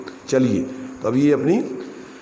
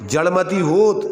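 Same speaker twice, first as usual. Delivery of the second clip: जड़मति होत higher, with होत lifted and left hanging; questioning stress on होत; 4 semitones higher than usual. Shown as a demonstration. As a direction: raise होत like a question awaiting its answer. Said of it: "बोलना वही है अक्षर अपन को". (होत को ऊँचा उठाकर अधूरा छोड़ें)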